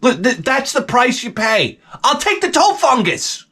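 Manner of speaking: high, strained insistence; comic defiance. Real, not acted. Comic defending his used boots, defiantly high-pitched. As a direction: declare it high-pitched, happily accepting the cost.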